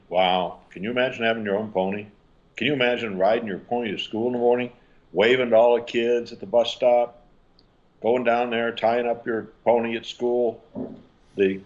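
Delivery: fast, playful, wide-eyed imagining; enthusiastic mom response. Shown as a demonstration. Mom playfully imagining the pony with her son, fast and bright. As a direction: sweep the kid into the daydream. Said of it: "let me give you the response".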